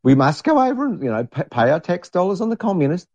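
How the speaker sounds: high-pitched parody of alarmed viewers; mock urgency. Gullible viewers demand war on communists, mock urgency. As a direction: insist on it in mock panic.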